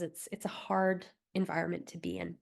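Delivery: soft, hushed whisper. Real, not acted. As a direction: drop into a gentle whisper for the hard truth. Empathetic aside about job hunting.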